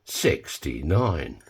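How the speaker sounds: slow drawn-out bingo call; bingo caller. Acted. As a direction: call the numbers like bingo night. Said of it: "done a bit of, uh, bingo calling".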